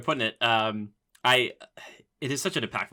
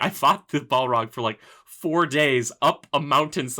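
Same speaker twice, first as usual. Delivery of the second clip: lightly voiced wizard, slow and grand; a hint of a solemn Gandalf; mock grand wizard; 3 semitones higher, 5 dB louder than usual. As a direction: pronounce it like an epic tale. Imitating Gandalf's grand claim.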